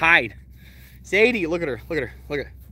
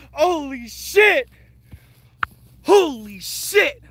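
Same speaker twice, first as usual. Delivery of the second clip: slow amazement; 4 semitones higher, 5 dB louder, much slower than usual. Real, not acted. Amazed after kill.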